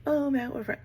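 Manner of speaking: high, airy, carefree cover story; a breezy, casual fib; breezy brush-off. Retold or imitated. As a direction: toss it off like you're busy having fun. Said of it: "I'm just like".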